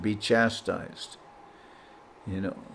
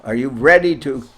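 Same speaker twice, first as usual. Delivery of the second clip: stern challenge; 5 dB louder, slower than usual. Retold or imitated. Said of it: "Guru Maharaj said like that".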